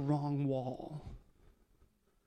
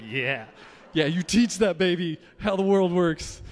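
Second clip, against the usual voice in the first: laughing approval; 5 dB louder than usual. Retold or imitated. Voicing listener's gleeful approval.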